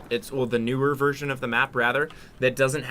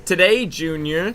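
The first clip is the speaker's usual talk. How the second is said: movie quote voice; 5 semitones higher, 7 dB louder, slower than usual. Retold or imitated.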